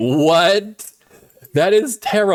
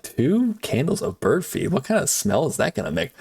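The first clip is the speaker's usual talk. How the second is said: imitating a baffled misreading, softer, with two candles OF bird feed; softly bemused mock question about "of bird feed"; puzzled misreading; 2 semitones higher, 4 dB quieter than usual. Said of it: "I was like".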